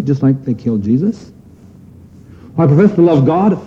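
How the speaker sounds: lightly voiced hypocrite; mock self-deceived believer. Voicing the deceived Christian.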